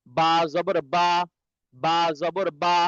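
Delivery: "বা" made on the moist inner part of the lips; wet-lip b. Shown as a demonstration. Teacher showing students where the letter forms, slow "বা" from the wet inner lips. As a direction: press the inner lips for "বা", drawn out slowly. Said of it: "এটা হচ্ছে ভিজা অংশ হইতে".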